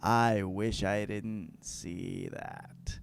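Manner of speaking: slow, hushed and appalled; shocked whisper. Retold or imitated. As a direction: whisper it in disbelief. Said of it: "Basil's like".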